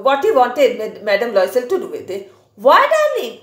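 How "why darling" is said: high, eager husband voice; pleading husband. Acted. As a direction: plead sweetly with your wife. Teacher voices husband's reply.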